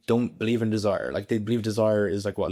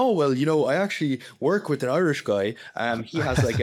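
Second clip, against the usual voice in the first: put-on Irish accent; 4 semitones higher than usual. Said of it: "had, like, kind of, like, an Irish accent".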